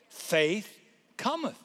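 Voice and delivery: "cometh" set apart after a pause, lifted high; stress on COMETH. Shown as a demonstration. Preacher drives home the verse's key word, stressing "cometh". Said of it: "The emphasis is on the word".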